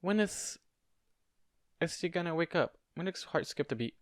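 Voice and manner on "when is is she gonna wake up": put-on young, lisping, higher voice; a small boy with a lisp, asking. A narrator's reading. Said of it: "young, and had a slight lisp to it".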